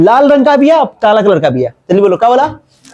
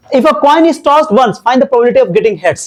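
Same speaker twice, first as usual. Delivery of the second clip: slow dictation; 3 semitones higher, much slower than usual. Shown as a demonstration. Teacher reads question to class.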